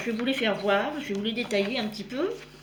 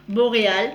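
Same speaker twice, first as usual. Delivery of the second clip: BORÉAL said louder, as a correction; emphatic correction; 2 semitones lower, 6 dB louder than usual. Real, not acted. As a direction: correct yourself firmly on "Boréal". Corrects her own slip of tongue. (« Boréal » appuyé, plus fort, pour se corriger)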